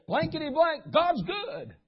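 new convert's testimony. Retold or imitated. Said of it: "give a testimony and say".

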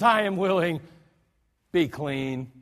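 compassionate Jesus. Shown as a demonstration. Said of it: "filled with compassion".

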